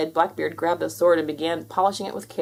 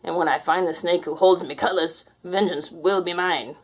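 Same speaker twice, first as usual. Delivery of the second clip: pirate ghost voice. Acted.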